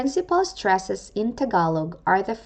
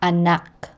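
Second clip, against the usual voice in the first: Anak with stress on the final -nak; stress on last syllable. Shown as a demonstration. Teacher showing Tagalog end stress to learners, final syllable stressed in Anak. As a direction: land the weight on the end of Anak. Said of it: "end stress laid on the last syllable".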